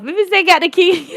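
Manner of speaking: high voice breaking into laughter; cracking up. Real, not acted. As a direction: dissolve into laughter as you finish. Cracks up at own catchphrase.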